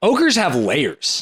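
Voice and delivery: slow, drawn-out ogre quote; Shrek. Acted. Offering a famous movie line to a co-host, mock Shrek. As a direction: stretch the movie line out slowly. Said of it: "most famous Shrek lines".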